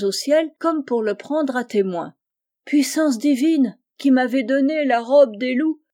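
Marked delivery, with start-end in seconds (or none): 2.6-5.8 mock sobbing plea. Lying wolf begs heaven before the boy, hammed-up sobbing lament. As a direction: wail it to heaven like a fake sob. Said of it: "dit-il en sanglotant".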